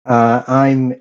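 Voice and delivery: nasal, stuffed-up voice after illness. Real, not acted. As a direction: speak through a nasal, recovering voice. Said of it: "I sound a little bit more nasally".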